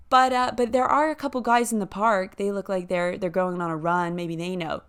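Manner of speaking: put-on American accent, helpful local; quoted local in an American accent. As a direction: imitate the American woman giving directions. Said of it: "let me do the accent".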